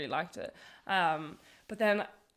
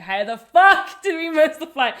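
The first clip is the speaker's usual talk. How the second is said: much louder and higher, laughing disbelief; exasperated outburst; 8 semitones higher, 13 dB louder, slower than usual. Retold or imitated. Retelling missing flight.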